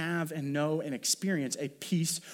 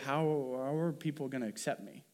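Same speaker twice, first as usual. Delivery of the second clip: quiet, mildly worried inner questioning; understated acted worry; 5 dB quieter than usual. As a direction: think aloud softly as an anxious Mary. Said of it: "might be a worry of".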